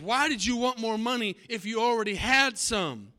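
ticked-off dad. Acted. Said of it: "now the dad's ticked off".

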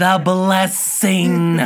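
Aunt Bethany. Retold or imitated. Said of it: "Aunt Bethany".

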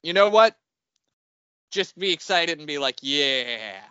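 director at the end of his rope; retold director giving up. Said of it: "the director was finally just like".

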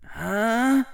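confused huh. Acted. Harry confused.

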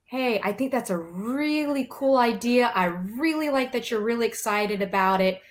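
demonstrated enthusiastic praise, "really" stretched; complimenting. Shown as a demonstration. Showing how to praise a student's idea in class, complimenting. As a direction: validate their excitement before redirecting. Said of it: "what you do first is you compliment".

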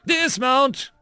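shouted order. A narrator's reading. Bradford orders her squad out of the Humvee, shouting. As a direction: shout it sharply as a command. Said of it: "Bradford shouted".

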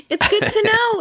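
laughing through the words; giggling it out high. Real, not acted. Laughing while repeating.

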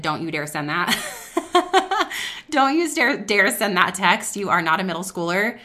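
a scolding inner voice reining her in; stern rebuke to a middle schooler; stern warning. Retold or imitated. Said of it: "Holy Spirit said".

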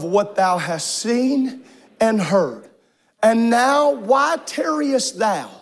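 slow, measured King James reading; scripture reading. Acted. Pastor leading the room in reading Acts, slow and solemn. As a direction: read each phrase slowly, like scripture aloud. Congregation reads scripture together.

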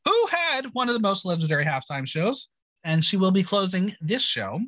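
lightly performed episode-recap narration; measured podcast recap read; scripted recap read. Acted. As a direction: read it out like a recap host, names set apart.

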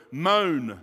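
drawn-out moan on Moan. Shown as a demonstration. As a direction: let Moan sound like a moan. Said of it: "This is what it means".

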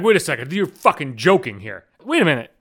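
rising into high disbelief at the end; surprised. Retold or imitated. Two Trinidad women finding out they share a hometown, incredulous. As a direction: imitate two strangers stunned to learn they're both from Trinidad.

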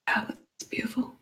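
breathy tearful whisper. Real, not acted. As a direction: whisper it, overcome. Moved to tears by the reveal.

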